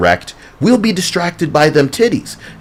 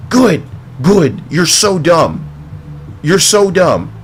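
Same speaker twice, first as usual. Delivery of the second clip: mocking taunt; 4 semitones higher, slower than usual. Mocking the character on screen.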